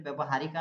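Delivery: ବ୍ୟବହାରିକା with a final long a; wrong pronunciation. Shown as a demonstration. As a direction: show the mistaken ବ୍ୟବହାରିକା ending in -ka. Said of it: "ଆମେ କହିପାରିବାନି".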